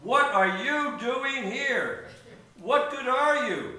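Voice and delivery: slow, pointed interrogation; imperious rooster questioning the intruder; rooster's challenge. Acted. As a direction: demand answers, stretching each word. Rooster challenges the strange bird.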